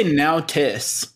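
"now tis" as two separate words; imitated bear-speak "now tis"; odd baby-talk spelling. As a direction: say "now" like "cow", then "tis". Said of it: "Why does he always say".

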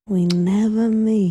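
slow, understated Mid-Atlantic accent; lightly drawn-out Mid-Atlantic delivery. Shown as a demonstration. Comedian showing her own punchline's accent, slow Mid-Atlantic. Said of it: "kind of like Mid-Atlantic".

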